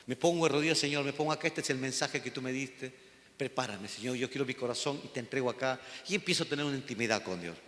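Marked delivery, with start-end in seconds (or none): 0.8-5.8 soft, low retold prayer, murmured to God; hushed prayer. Pastor retelling his private prayer in the office, hushed and soft. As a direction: pray it quietly, on your knees.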